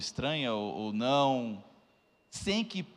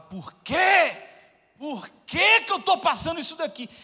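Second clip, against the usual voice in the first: loud, high, angry cry of why; angry shout; 13 semitones higher, 8 dB louder, slower than usual. Retold or imitated. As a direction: yell it at the ceiling in anger. Retold angry outburst in hospital. (grito de raiva alto e agudo)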